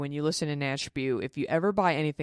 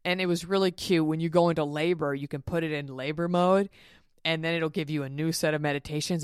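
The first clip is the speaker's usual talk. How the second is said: ordinary talk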